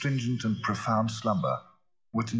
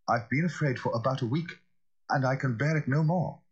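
higher-pitched, anxious servant; fearful butler; 7 semitones higher than usual. Acted. Butler admits his fear to the lawyer, anxiously. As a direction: confess a long-held fear, pitch raised.

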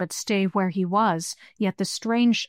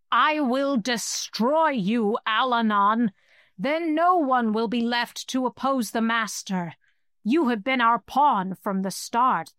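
furious hissing creature; 3 semitones higher than usual. Acted. Skull-bearer gloats over the druid and the heir, furious hiss. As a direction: spit hatred like a cornered beast. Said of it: "The creature hissed its fury".

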